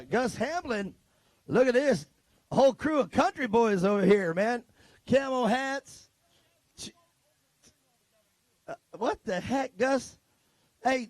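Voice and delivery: a rodeo-style country twang, ribbing the crew; country accent. Acted. Announcer ribbing the country boys' crew in a hammed-up country accent. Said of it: "I don't know where my country accent came from right there".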